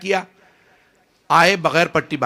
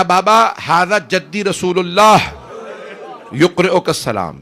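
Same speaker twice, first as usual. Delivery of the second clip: calling out; 5 semitones higher, 5 dB louder, slower than usual. Acted. Dying son calls to father.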